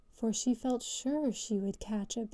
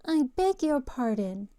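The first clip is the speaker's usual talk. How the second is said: frowning but polite; 3 semitones higher, 4 dB louder than usual. Acted. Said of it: "frowning, but very politely".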